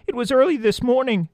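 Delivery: high, tiny mouse voice; little field mouse chattering; squeaky mouse voice. A narrator's reading. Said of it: "said the one mouse".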